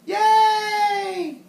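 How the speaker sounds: high, loud happy yay; excited cheer. Acted. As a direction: cheer like a delighted child. Kids cheer at story title.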